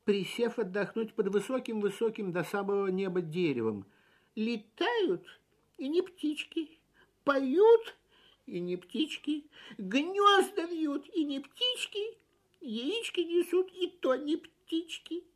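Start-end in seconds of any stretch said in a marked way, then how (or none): 4.3-15.2 lamenting to himself. A narrator's reading. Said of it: "сказал он, никому не обращаясь".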